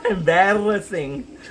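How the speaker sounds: slow word stretched through a real laugh. Real, not acted. Streamer laughing about weight loss being embarrassing, slow and giggling.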